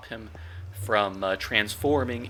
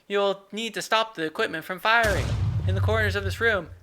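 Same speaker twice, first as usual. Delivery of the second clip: intern Steven voice; 9 semitones higher than usual. Acted. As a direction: yell it up high like an eager intern. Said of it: "why is he yelling?".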